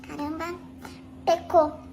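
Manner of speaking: whispered scandalized aside; hushed, scandalized whisper; shocked whisper. Retold or imitated. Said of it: "fiz assim". (sussurro escandalizado)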